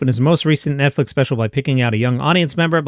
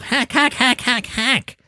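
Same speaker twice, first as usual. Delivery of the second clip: high, squawky repeated jeer; mock jeering; 8 semitones higher, slower than usual. Real, not acted. Host heckles Amy's hack joke, mock jeering. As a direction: heckle a bad joke, pitched way up.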